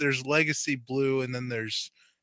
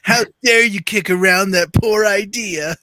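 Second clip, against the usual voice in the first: mock outrage; 7 semitones higher, 11 dB louder than usual.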